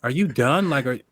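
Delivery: exasperated retelling, rising into questions; mock-frustrated, pitch lifting on the questions. Bandmate wanting vocals recorded, mildly exasperated. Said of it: "I'm getting frustrated".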